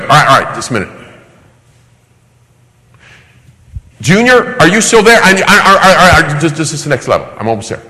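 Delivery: put-on high, pleading kid stalling over a video game; whiny Junior.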